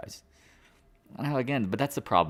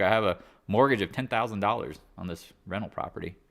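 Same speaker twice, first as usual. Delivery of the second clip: hillbilly; 5 semitones higher than usual. Retold or imitated. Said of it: "me talking like a hillbilly".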